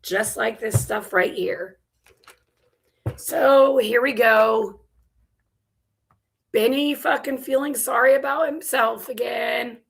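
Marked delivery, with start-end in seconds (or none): 3.2-9.8 exasperated. Real, not acted. Exasperated intro before clip.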